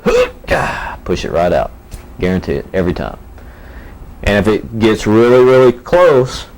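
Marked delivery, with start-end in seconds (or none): 0.0-1.0 forceful strained "Hook!" then a breathy grunt; under heavy g force. Shown as a demonstration. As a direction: clench hard and spit out "Hook! Gah!". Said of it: "just give it a little hook".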